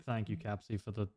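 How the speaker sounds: halting, stuck on the words; stumbling reading. Real, not acted. Streamer thanking a viewer for money, stumbling as he reads. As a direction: trip over it while reading aloud. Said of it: "I was having a stroke reading that".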